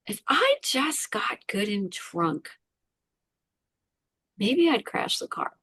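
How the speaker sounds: slow, whispered admission; hushed confession. Real, not acted. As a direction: breathe the dark thought out slowly. Confessing dark suicidal thought.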